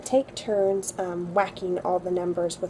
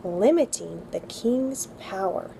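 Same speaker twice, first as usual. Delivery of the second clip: slow, careful dictation pace; slow recitation; slower than usual. Shown as a demonstration. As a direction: read it slowly for kids to repeat. Reads history sentence for memorizing.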